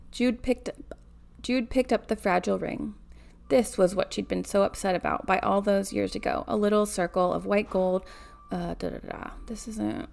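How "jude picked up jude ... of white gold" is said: measured read-aloud narration; story narration. A narrator's reading. Reader telling of a granddaughter by the bed, story narration. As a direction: read the novel out evenly.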